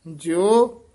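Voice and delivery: ਜਿਉ held out, then a halt; brief pause after ਜਿਉ. Shown as a demonstration. Teacher marking for students a short halt after ਜਿਉ. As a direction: stretch ਜਿਉ and stop briefly. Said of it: "ਇੱਥੇ ਯਮਕ ਹੈ".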